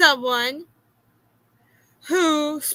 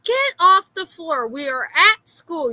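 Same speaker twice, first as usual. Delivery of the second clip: firm order, starting higher; retold scolding; 4 semitones higher, 4 dB louder than usual. Mother to her son on the classroom floor, retold scolding. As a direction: re-enact a mom's telling-off.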